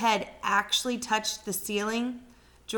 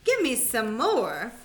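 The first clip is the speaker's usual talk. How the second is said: a crazed grandma triumphant as she grows; ecstatic old grandma; 2 semitones higher, 4 dB louder, slower than usual. Acted. Grandma demands more medicine.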